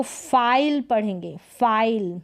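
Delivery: फाइल with a long "eye" vowel; फाइल, the vowel said as a full glide; long i sound. Shown as a demonstration. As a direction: say फाइल as "file", silent e. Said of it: "इसका उच्चारण long होगा".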